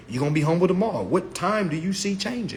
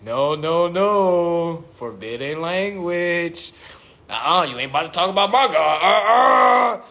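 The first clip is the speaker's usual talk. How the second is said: mock offended; 3 dB louder, slower than usual. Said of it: "He literally just said".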